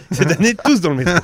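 political slogan. Retold or imitated. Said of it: "on aurait dit un slogan politique".

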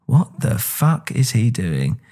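slow, drawn-out disbelief, lightly acted; mock bafflement. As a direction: spell out a viewer's bewilderment slowly. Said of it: "any normal British person will watch that and go".

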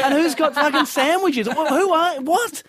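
high-pitched incredulous inner rant; hammed-up exasperated bafflement; baffled outburst. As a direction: question it all in rising disbelief. Acting his baffled inner reaction.

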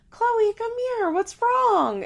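very high mock-concerned mom voice; imitated fussing mother. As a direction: imitate a mother calling her crying child, high and loud. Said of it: "she's screaming, the ba-, Chloe starts crying".

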